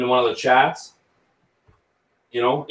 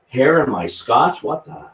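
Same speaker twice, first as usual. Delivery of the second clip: mock shock; 6 semitones higher than usual. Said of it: "you're hilarious".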